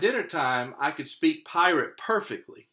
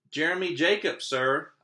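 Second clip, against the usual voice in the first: put-on boy answering; 4 semitones higher, 4 dB louder than usual. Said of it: "I told him".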